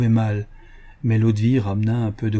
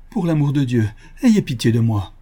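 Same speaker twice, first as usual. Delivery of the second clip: louder, begging cry for mercy; desperate cry; 4 dB louder than usual. Acted. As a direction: cry out, clinging to his knees. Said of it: "cria-t-il".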